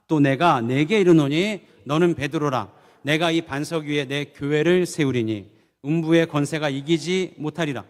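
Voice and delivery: a measured read of scripture. Acted. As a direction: read it like a solemn recitation. Congregation reads scripture aloud.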